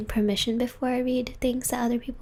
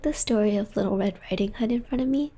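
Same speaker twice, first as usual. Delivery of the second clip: whispering. Real, not acted. Whispering ASMR stream.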